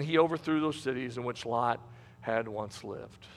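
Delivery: low, subdued Bible narration; solemn scripture reading. Acted. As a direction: bring the reading down to a grave close.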